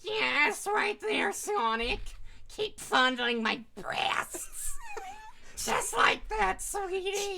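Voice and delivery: mock seductive lover. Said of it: "did you have some phlegm in your throat".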